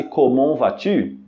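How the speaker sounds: French "comment vas-tu" said slowly, the t of "comment" silent; slow clear "comment vas-tu", no t; liaison demo. Shown as a demonstration. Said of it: "a pronúncia das duas palavras se conecta".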